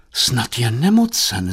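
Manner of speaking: mildly worried, drawn out. Acted. Mother fearing her son is ill, mild slow worry. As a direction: wonder slowly with a touch of concern. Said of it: "znepokojila se paní Štědrá".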